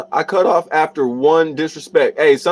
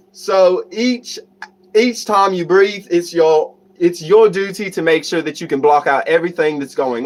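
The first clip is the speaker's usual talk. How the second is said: amateur British accent. Shown as a demonstration. Streamer teaching breathing to viewers, attempted British accent. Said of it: "I'm gonna try my accent".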